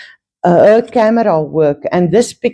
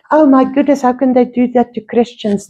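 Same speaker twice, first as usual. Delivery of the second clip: mock shock; 5 semitones higher, faster than usual. Mocking shocked churchgoer.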